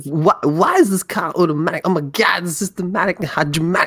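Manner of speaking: mock-excited car fan voice; Chris Lightning impression. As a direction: gush about the car like him. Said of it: "that sounds nothing like him".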